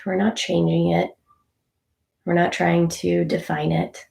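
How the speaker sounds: unhurried meditation guide with long pauses; calm, even instructor leaving space between phrases; guided meditation. Real, not acted. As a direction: gently talk listeners through noticing their breath.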